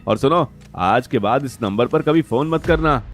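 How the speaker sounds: irritated, haughty phone put-down; angry mistress. Acted. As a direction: dismiss the caller with contempt. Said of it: "Natasha ने गुस्से में".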